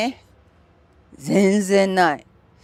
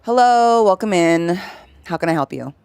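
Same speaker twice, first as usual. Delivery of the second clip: sinking, unfriendly-sounding welcome; low flat greeting; 3 dB louder than usual. Shown as a demonstration. Showing chat how a low greeting sounds exasperated. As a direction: greet in her natural low voice, sounding tired. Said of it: "you sound, like, exasperated".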